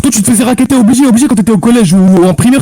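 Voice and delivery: heated. Real, not acted. Heated insult exchange.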